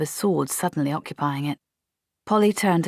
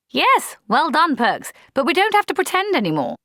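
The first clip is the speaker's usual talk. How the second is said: indulgent officer; 12 semitones higher, 5 dB louder than usual. A narrator's reading. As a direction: humour her kindly. Blouse indulgently praising.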